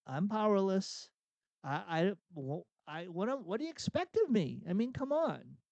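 hesitant, then exasperated and pleading; helpless protest. Acted. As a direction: act out someone powerless making excuses. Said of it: "say it as a question".

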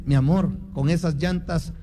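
lightly acted husband's tender reply; mock tenderness. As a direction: play at being tender for the joke. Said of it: "con ternura y le dice".

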